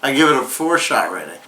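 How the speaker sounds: slightly slurred, tipsy. Real, not acted. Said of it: "how many shots have I had right now".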